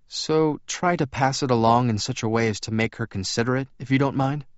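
lightly voiced, courteous vampire; Edward's character voice. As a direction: lift the pitch a little, explain politely. Edward's dialogue in story.

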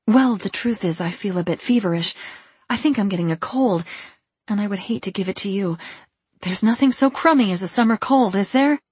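lightly voiced, chatty excuse-maker; lifting, hurried excuses with a touch of fluster; flustered Edith. Edith making excuses to get rid of John, mildly flustered.

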